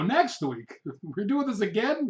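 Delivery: mock dismay, laughing; retold dismay. Student dismayed at another debate.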